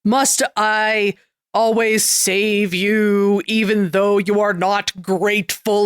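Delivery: slow, drawn-out mock lament. Cosmic hero to ungrateful people, slow lamenting. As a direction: stretch the words out, lamenting for effect. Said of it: "he's, like, lamenting".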